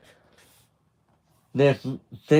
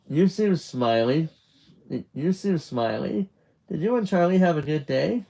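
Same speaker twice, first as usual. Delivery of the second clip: slightly higher, questioning mum; a hint of an interested mum; lightly voiced mother; 5 semitones higher than usual. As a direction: ask your son, pitched a little up. Mother asking Nick about his day.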